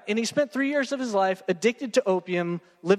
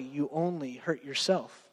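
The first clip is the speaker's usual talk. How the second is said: ordinary talk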